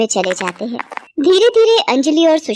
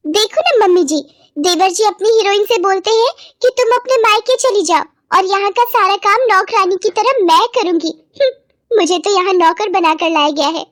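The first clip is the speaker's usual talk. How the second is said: much higher, whining tell-tale bahu; aggrieved sister-in-law; 9 semitones higher than usual. Acted. Anjali complaining to mother-in-law about brother-in-law, high aggrieved voice. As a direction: complain high, with a huffy hmph.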